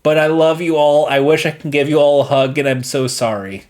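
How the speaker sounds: tipsy, gushing affection. Real, not acted. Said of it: "sorry, I'm drunk".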